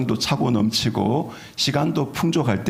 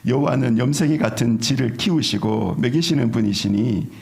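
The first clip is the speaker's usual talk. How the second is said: Chungcheong dialect. Shown as a demonstration. Pastor showing the congregation his home-town Chungcheong accent. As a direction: let the Chungcheong lilt stretch the last line. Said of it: "충청도 버전".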